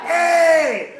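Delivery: mock whisper-scream Hey; whisper yelling. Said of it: "Whisper screaming like crazy".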